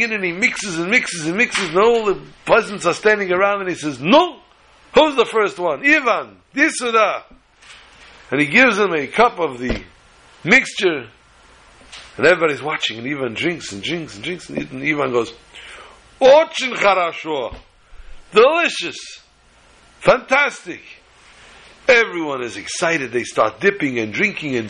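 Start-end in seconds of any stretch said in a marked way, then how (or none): 4.0-7.3 hearty host. Acted. Rabbi hosts peasants, offering drinks. 16.2-20.8 a Russian peasant raves about the punch. Acted. Peasant Ivan tastes the drink.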